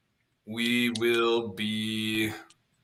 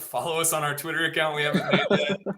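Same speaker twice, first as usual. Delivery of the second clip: streamer voice; 4 semitones higher than usual. Pretend. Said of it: "the streamer voice".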